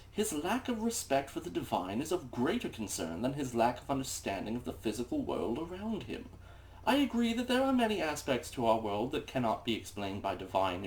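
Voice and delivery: haughty know-it-all reading; snooty voice. Acted. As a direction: read it like the smartest man in the room. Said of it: "in a snooty douchebag voice".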